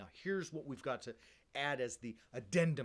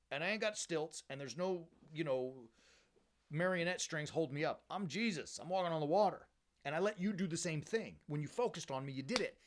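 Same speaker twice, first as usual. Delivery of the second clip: lightly acted casual protest, voice raised in pitch; Jesus; 3 semitones higher than usual. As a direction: argue it like an incredulous bro. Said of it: "Like, Jesus is saying".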